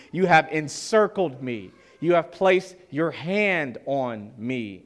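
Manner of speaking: slow down and weigh each word of the verse. Shown as a demonstration. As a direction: read it again slowly, leaning on "placed". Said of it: "I'ma just stick with the C S B".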